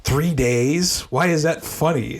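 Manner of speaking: lightly imitated baffled grandma; mildly puzzled, unamused question; grandma's puzzled question. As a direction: question it, not getting the joke. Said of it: "My grandma's like".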